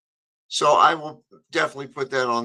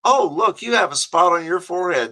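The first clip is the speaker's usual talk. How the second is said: lightly voiced mother, louder at the start; mock motherly fussing, starting raised; 3 semitones higher, 5 dB louder than usual. Mothers spotting a mark on your forehead, lightly imitated fussing. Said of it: "when mothers would look at you and they go".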